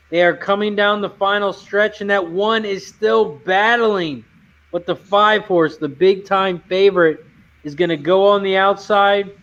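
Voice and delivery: announcing the horses like a track caller; play-by-play race call. Shown as a demonstration. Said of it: "so I am gonna call it".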